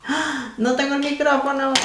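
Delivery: high, startled cry of realization; real surprise at a forgotten mic; sudden surprise. Real, not acted. Notices she forgot the microphone. (sorpresa repentina, voz alta y aguda)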